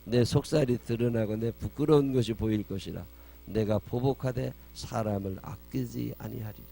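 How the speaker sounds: loud scripture declamation, slowing at the end; God's angry proclamation. Acted. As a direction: declaim God's judgment, forceful then measured. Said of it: "하나님이 화가 나셨다는 거예요". (하나님의 진노를 선포하듯 힘주어 낭독)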